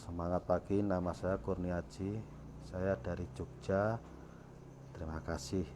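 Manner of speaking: flat monotone. Shown as a demonstration. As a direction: mumble it with zero expression. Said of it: "nggak ada intonasinya, nggak ada ekspresinya".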